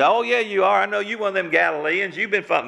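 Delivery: a touch of a high, nosy woman's voice; lightly voiced village woman; accusing woman. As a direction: point the finger like a busybody. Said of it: "A little good woman there says".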